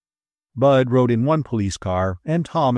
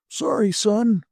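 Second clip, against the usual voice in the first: apologetic; 11 semitones higher, slower than usual. A narrator's reading. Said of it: "Smith said apologetically".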